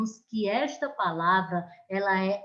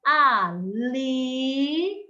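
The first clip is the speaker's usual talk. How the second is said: ali with LI leaned on; stress on LI; 2 semitones higher than usual. Shown as a demonstration. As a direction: land on the LI in ali. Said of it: "Próxima palavra".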